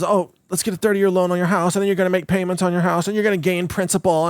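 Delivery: lightly mocked planner drone, running on and on; annoying financial planner. Host imitating a planner pitching a house loan, mild tedious drone. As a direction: rattle off the plan in a tedious monotone. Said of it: "this is the way that financial planners talk".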